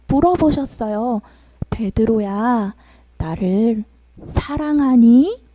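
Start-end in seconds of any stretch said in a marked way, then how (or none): 1.7-5.4 gentle question. Acted. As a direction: ask him tenderly. Jesus gently asks Peter.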